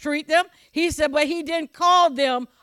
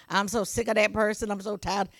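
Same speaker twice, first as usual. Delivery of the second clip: muttered fed-up grumbling, softer; weary complainer; 4 semitones lower, 6 dB quieter than usual. Retold or imitated. Preacher mimicking a church member fed up with people, softly grumbling. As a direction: sigh it out like someone sick of everyone.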